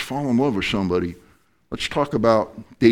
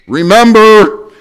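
slow, loud, drawn-out remember; emphatic remember; 12 semitones higher, 13 dB louder, slower than usual. Real, not acted. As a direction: hammer the first point home. Preacher's point shouted.

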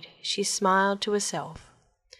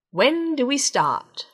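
eager frog; 6 semitones higher, 4 dB louder, slower than usual. Acted.

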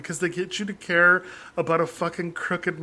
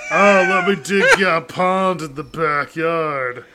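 slow, hammed-up Australian porn-star drawl; a cheesy Australian handyman come-on, slowed down; mock Australian accent; 6 dB louder, slower than usual. Joking to podcast friends as a porn handyman, mock Australian accent. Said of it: "that was his porn accent".

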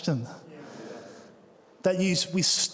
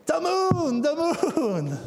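put-on high, wide-eyed toddler calling out; dad imitating his toddler spotting the moon; little son's voice; 11 semitones higher, much slower than usual. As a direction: call it out like an amazed toddler at the window. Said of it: "that's how he sounds, he's got an accent".

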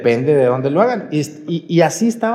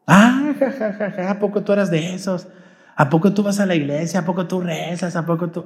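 mocking laugh. Cohost laughing at his friend for going to church, mocking jeers. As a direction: tease him, laughing at him. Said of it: "Burlándose de".

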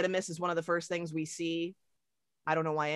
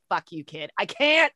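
mock bratty snap; 7 dB louder than usual. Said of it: "she's just like".

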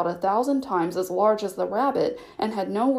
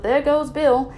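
crowd shout; 5 semitones higher, 5 dB louder, slower than usual. Acted. Chorus of voices shouting.

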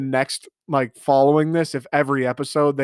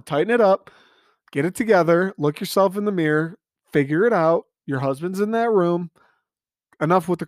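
scolding Claire; 4 semitones higher than usual. Acted. Host scolding Claire for crying, stern. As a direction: tell her to pull herself together.

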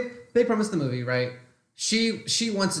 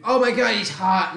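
swooning schoolgirl; 3 semitones higher, 4 dB louder than usual. Retold or imitated. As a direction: gush like a smitten teen mocking her.

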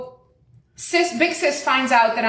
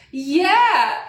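high, drawn-out yeah breaking into laughter; laughing agreement; 6 semitones higher than usual. Retold or imitated. Customer soaking up lady's sympathy, laughing high agreement. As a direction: agree through a laugh, playing up the self-pity.

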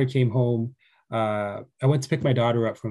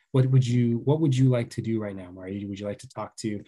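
soft tender question; 2 semitones lower, 3 dB quieter than usual. Retold or imitated. Father softly asking upset daughter.

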